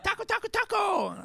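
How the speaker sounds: put-on sing-song it high like a giggly girl; teasing girl. First kiss teasing the comedian, high mock girl chant. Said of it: "she was like".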